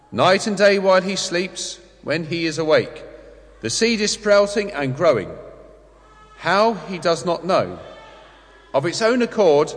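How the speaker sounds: measured, projected scripture reading; formal liturgical reading, carefully weighted; Gospel reading. A narrator's reading. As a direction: proclaim it phrase by phrase with clear pauses. Reads the Gospel aloud.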